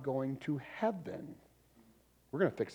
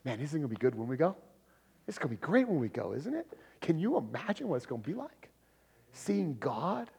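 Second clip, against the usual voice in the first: eager wonder. Shown as a demonstration. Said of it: "how do we steer it back to Christ?".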